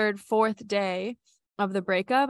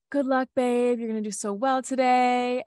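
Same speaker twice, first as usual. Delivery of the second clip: slightly higher, sing-song partner's good-luck wish; retold well-wishing; 4 semitones higher, 3 dB louder than usual. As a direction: voice a sweet send-off, pitched up.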